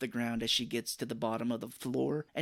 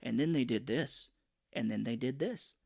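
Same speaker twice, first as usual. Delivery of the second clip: mock dull line-by-line retelling; boring recital. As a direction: list it off tediously, each step lilting up at the end. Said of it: "Like, that's boring as shit".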